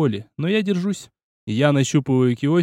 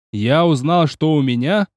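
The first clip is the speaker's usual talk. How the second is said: shouted recital. Acted. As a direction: yell the poem line while leaping. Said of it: "выкрикнул".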